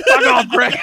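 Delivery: high, loud dismissal; acted annoyance. Sufferer to his returning headache Greg, high irritated shout. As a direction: snap it loudly at a pest.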